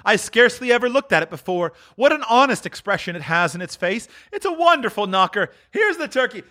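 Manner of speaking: high, delighted character voice; Scrooge, overjoyed. Acted. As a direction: marvel aloud in a high voice.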